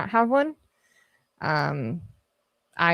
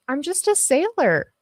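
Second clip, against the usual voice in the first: mock court plea; 4 semitones higher than usual. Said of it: "should I just use that in court?".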